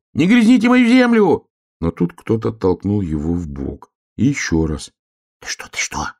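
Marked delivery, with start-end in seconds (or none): 0.1-1.5 отчаянный крик, высоко и громко; крикни изо всех сил, с отчаянием. Acted. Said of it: "и закричал". 5.2-6.1 тихий встревоженный шёпот; шепни испуганно, будя друга; испуганный шёпот. Acted. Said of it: "испуганно шептала белка".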